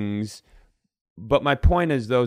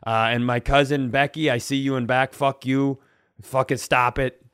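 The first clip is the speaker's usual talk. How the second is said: mock flight announcement. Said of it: "just like personal announcements".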